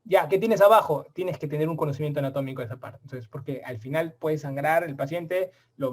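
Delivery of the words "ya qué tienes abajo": louder, firm commands to a resident mid-surgery; coaching the resident. Retold or imitated. Surgeon instructing his resident at the table, louder firm commands. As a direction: bark the steps like you're at the operating table. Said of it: "Eso les enseño a mi residente".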